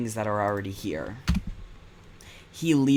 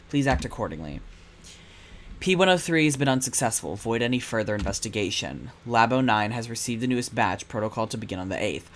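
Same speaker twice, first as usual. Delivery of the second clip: ominous letter read. Acted. Reading Seven's letter to Percival, cold and threatening. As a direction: read it like a villain's warning. Reads menacing typed letter aloud.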